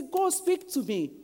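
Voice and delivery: high-pitched imploring prayer; pleading with God. Acted. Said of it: "And then we say".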